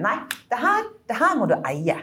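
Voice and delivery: lightly put-on Norwegian regional dialect, encouraging; borrowing a friend's regional dialect, not quite landing it; mock dialect of friend. Quoting her friend in a half-hearted regional dialect. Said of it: "prøve å ta den dialekten".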